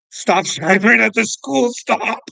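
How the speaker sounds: laughing incredulously, high and loud. Real, not acted. Telling the story of a bogus traffic stop, laughing. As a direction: laugh through the absurd accusation. Laughing while retelling cop's claim.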